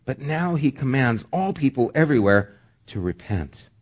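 measured public Bible reading; scripture reading. Acted. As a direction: read the passage aloud to a congregation. Reads scripture aloud.

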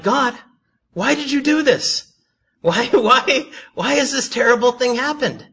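high, loud hammed-up wail to God; mock crying out. They sit before God and cry, mock wailing. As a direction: wail each why in mock despair. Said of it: "sit before God and they cry".

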